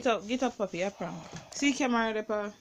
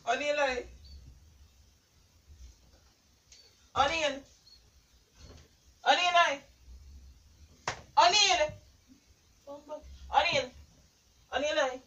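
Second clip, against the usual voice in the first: repeated urgent calls, pitched up; calling to rouse someone; 3 semitones higher than usual. Real, not acted. Prankster calling partner to wake up, urgent calls. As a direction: call a partner's name to wake them.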